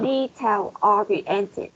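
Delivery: Detail oriented said slowly and clearly; pronunciation drill. Shown as a demonstration. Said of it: "read out loud the word".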